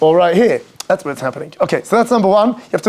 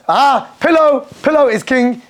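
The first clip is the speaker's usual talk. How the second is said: high, slow, savoring sigh; luxuriating mock rapture; emotional pillow worship; 5 semitones higher, slower than usual. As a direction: sink blissfully into the pillow. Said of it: "the Yetzer Hara comes with emotion".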